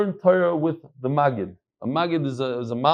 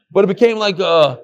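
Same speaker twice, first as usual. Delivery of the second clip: words laughed out, a bit louder; laughing; 4 semitones higher, 7 dB louder than usual. Real, not acted. Laughing about wife's reaction.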